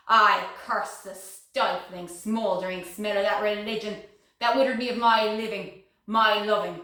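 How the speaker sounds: bitter cursing. Acted. Woman damning the religion that withered her, bitter. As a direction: curse it with mounting force.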